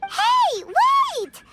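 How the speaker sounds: calling out. Acted. Paimon calling after Xiao as he leaves, urgent. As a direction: call him back before he goes.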